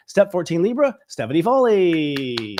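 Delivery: big slow guest announcement; announcer intro. Acted. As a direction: drag the name out like a showman.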